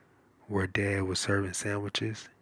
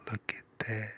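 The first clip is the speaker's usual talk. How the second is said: whisper in left ear; 5 dB quieter than usual. Real, not acted. Reading to kids, aside whisper.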